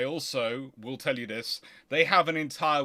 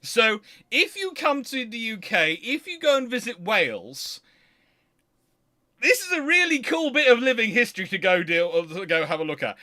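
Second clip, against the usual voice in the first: higher and louder, bubbling with enthusiasm; excited; 8 semitones higher, 7 dB louder than usual. Real, not acted. Telling viewers about the 1797 pub tables, excited. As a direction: sell it like a real treasure you've found. Urging viewers to visit Wales.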